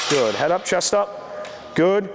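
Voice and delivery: trainer calling out reps; encouraging gym coach cues. Real, not acted. Trainer coaching a live deadlift set.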